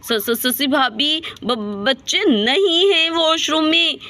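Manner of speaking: slow, stuttering fearful report; frightened stammer. Acted. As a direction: stumble over the words in fright. Panicked mother reports missing children.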